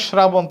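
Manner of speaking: "শ্রাবণ" as shrabon; wrong SH onset. Shown as a demonstration. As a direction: open "শ্রাবণ" with a sh sound. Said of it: "তালব্য শ হবে না".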